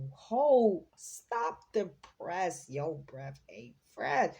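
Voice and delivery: loud "hold", then drawn-out "stop the press"; lightly put-on rhyming exclamation, punched at the start; someone's catchphrase talk. Reader blurts out a channelled person's rhyme, lightly put-on exclamation. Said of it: "Somebody talks like that?".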